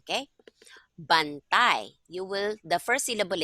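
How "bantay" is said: "bantay" said louder, falling at the end; example word. Shown as a demonstration. Tutor introducing a new example word, louder. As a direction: give "bantay" a clear, louder model. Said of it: "For example".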